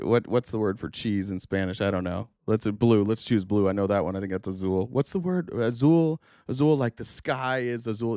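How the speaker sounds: imitating a show-off pretending to forget English; a hint of a smug returnee fishing for a word; mock returned missionary. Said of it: "they would do this".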